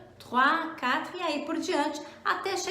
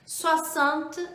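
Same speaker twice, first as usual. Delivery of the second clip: "soixante et onze" spoken slowly; slow model; much slower than usual. Shown as a demonstration. Teacher spells out seventy-one slowly for learners. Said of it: "vamos falar setenta e um".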